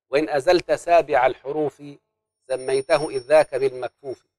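slow, measured recital of the verse text; formal memorized recitation; poem recitation. Acted. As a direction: recite the didactic poem line by line. Student recites didactic poem.

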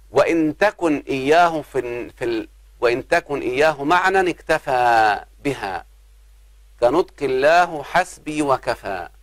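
slow, measured chanting of the Alfiyya lines; verse recitation. Acted. Teacher reciting a grammar poem to students, slow and chanted. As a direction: intone the verse line by line.

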